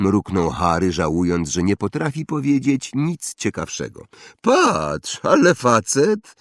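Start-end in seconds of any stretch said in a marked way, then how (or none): 4.4-6.3 put-on high boy's sudden call. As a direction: point and call out like a brat. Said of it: "zawołał nagle chłopiec". (chłopiec woła nagle, wysoko)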